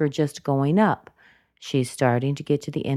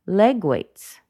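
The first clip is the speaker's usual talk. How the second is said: "leg" high, falling onto "weights"; really emphasize "leg"; stress on LEG; 4 semitones higher, 4 dB louder than usual. Shown as a demonstration. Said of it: "I really emphasized leg weights".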